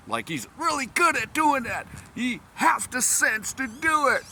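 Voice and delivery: high, giggly translation; laughing while talking. Real, not acted. Explaining the Korean phrase while cracking up. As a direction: talk through real laughter.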